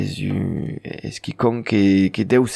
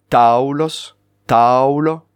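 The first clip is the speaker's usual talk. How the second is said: "Taulos", "Taulo" with strong first "Tau"; stress on second-last syllable; much slower than usual. Shown as a demonstration. Teacher giving Occitan examples, stress on "Tau" in "Taulos" and "Taulo". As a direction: punch "Tau", leave the ending of "Taulos" and "Taulo" light. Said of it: "l'accent se fait sur l'avant-dernière syllabe".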